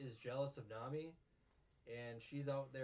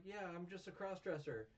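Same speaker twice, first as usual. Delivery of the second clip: mock high voice; 8 semitones higher than usual. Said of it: "She's like".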